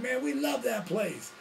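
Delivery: slow, high, drawn-out redneck voice; redneck fan. Retold or imitated. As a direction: redneck in the truck gushing over the club, slow and high. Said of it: "They're like".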